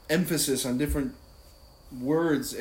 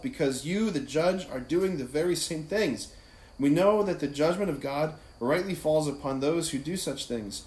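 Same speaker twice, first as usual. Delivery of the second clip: brisk, raised-pitch reading aloud; sped-through scripture reading; 3 semitones higher than usual. Shown as a demonstration. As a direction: read the passage straight through, briskly. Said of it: "I just sped right through that".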